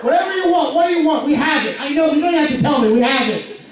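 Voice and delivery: high, hyped-up greeting; manic greeter. Retold or imitated. Comic hyping Walmart shoppers, manic high welcome. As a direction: greet like you're way too wired. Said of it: "I'm like".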